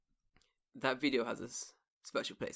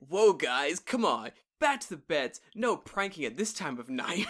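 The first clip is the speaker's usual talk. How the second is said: camp counselor; 2 semitones higher, 6 dB louder, slower than usual. Acted. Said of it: "you're like a fucking camp meeting".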